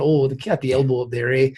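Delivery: a light, imitated Canadian accent; hockey teammates' saying in a touch of Canadian accent. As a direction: quote the hockey players in a mild Canadian accent. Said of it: "they would say certain terms".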